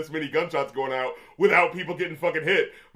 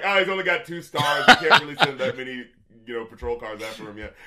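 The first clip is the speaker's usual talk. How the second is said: laughing; 4 semitones lower, 4 dB louder than usual. Pretend. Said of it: "where it's just like".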